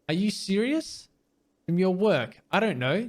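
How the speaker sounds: can't believe the question; incredulous. Acted. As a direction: manager baffled that a cop asks where money comes from. Manager stunned by naive question.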